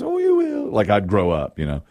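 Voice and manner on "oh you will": high mock mother voice, much higher; imitating mother. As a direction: put on a sweet high coaxing mom voice. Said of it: "She goes".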